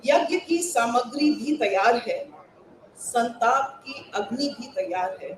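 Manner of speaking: हिंदी कविता पाठ; Hindi poem recitation. Acted. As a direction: recite it to a hall of fellow poets.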